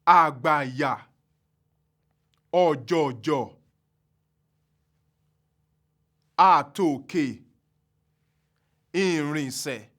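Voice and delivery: Àgbàyà, ọ̀jọ̀jọ̀, àtòkè, ìrìnsẹ̀ each on all low tones, slow; slow low tone words. Shown as a demonstration. Teacher modelling trisyllabic low tone words slowly. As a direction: sound every syllable low. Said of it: "in the following words with our trisyllabic".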